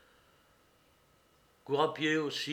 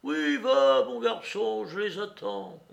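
high, loud cocky send-off; defiant, mocking woman; 8 semitones higher, 6 dB louder than usual. A narrator's reading. Woman tells Courrapier to fetch police, defiant. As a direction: call his bluff with scorn.

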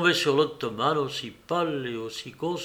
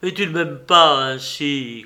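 louder anguished plea with the stress on pas; 7 dB louder than usual. Acted. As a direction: press the question out of real dread. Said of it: "continua-t-il avec angoisse".

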